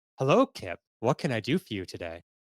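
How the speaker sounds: shipboard AI computer voice. Voicing the ship's AI greeting a crew member: ship's AI voice. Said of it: "and the A I says".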